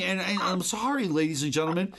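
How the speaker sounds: normal talking voice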